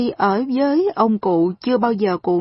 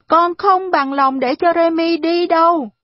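put-on high, loud child refusing; stubborn child; 8 semitones higher, 4 dB louder than usual. A narrator's reading. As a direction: dig in like a sulking boy. Arthur refuses to let Remy go. (giọng trẻ con cao, to, bướng bỉnh)

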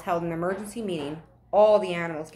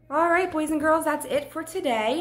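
higher, upbeat goodbye; cheerful sign-off; 5 semitones higher than usual. Real, not acted. Teacher saying goodbye to students, cheerful.

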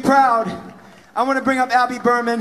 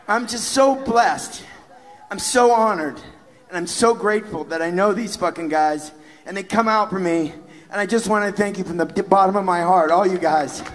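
getting emotional; 4 semitones lower than usual. Real, not acted. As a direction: hold back tears while thanking friends. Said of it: "I'm gonna get emotional".

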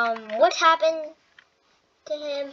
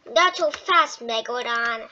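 loud taunt; 4 dB louder than usual. Pretend. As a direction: call it out, punching not. Toy animal chasing another.

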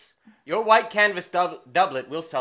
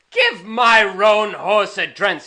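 Hotspur; 5 semitones higher, 7 dB louder, slower than usual. Retold or imitated. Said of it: "he says".

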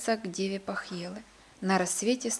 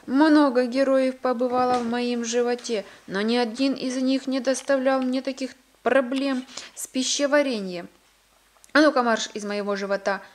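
louder, mildly indignant giant's complaint; 3 semitones higher, 5 dB louder than usual. Acted. Giant to the old man in his belly, mildly indignant. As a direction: complain loudly, then order him out briskly.

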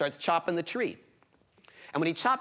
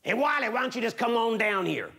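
a touch of a sly monster coaxing, higher; coaxing Hairy Man; 7 semitones higher than usual. Acted. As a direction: lure the boy down sweetly. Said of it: "the Hairy Man comes walking up".

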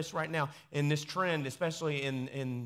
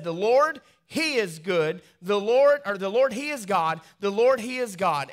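people crying out; 4 semitones higher, 7 dB louder than usual. Acted. People fall on faces crying.

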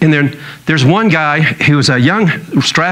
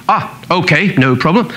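lightly imitated British doctor, unbothered; casual British reassurance, put on; a hint of British accent. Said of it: "He's British".

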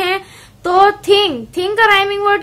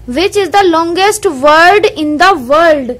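very slow, deliberate reading of the book line; careful teacher reading from the textbook; slow textbook read-aloud; 3 dB louder, much slower than usual. Acted. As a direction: read each word out slowly for the class. Reading riddle aloud slowly.

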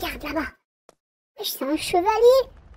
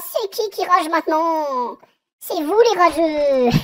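teasing laugh; 3 semitones lower, slower than usual. Real, not acted. Teasing chat after success.

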